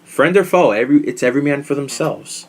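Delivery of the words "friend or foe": higher, punchier hype call; hyped tagline. Shown as a demonstration. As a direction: shout it like an announcer. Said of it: "this is the new tagline".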